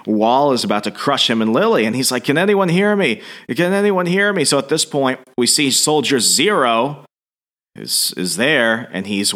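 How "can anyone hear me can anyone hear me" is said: high, urgent mock call for help; trapped man calling out, pitched high and pleading. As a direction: call out from under the rubble. Trapped under rubble, calling for help.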